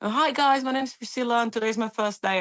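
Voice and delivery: chirpy hello to the room; eager newcomer greeting; cheery hello. Retold or imitated.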